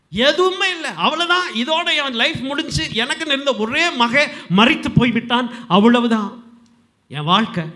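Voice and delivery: high, anguished voicing of a bereaved mother; acted despair, pitched high; widow's lament. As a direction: lament as a mother who has lost everything.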